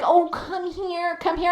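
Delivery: mock crying plea. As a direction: lightly mimic her teary pleading, hushed. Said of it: "she comes to the fence crying".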